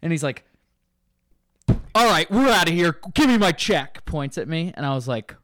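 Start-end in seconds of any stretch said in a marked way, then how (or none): 1.9-4.0 loud, higher barked demand; angry customer yell. Retold or imitated. Angry customer demanding the check from the bartender, loud and higher. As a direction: bark for the check.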